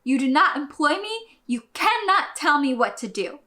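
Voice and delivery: retold snapping back. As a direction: re-enact finally losing patience with a customer. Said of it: "I finally just snap at him".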